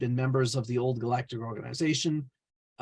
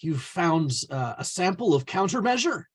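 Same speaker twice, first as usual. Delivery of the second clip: higher, rising voice of disbelief; mild astonishment; 4 semitones higher than usual. Retold or imitated. Twilight Sage reacting to the party's mechanism, mildly astonished. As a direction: react as if amazed by the find, lightly acted. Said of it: "he re-, reacted with astonishment".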